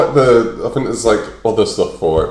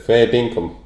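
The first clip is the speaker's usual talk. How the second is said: fair dinkum with more Aussie flavour; Australian accent. Shown as a demonstration. Second try for friend, Australian accent. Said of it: "that's all right".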